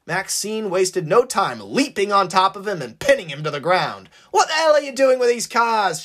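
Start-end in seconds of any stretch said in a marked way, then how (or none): 4.3-6.0 higher, louder angry demand; shouting demand. Acted. Maxine pinning the man, shouting higher and louder. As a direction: bark the question down at him. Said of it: "she shouted at him".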